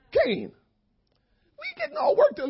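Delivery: a light, high, slow voice for the Lord; gently playing God speaking to Cain; voicing the Lord. Preacher voicing the Lord calming Cain, lightly high. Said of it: "And the Lord says to Cain".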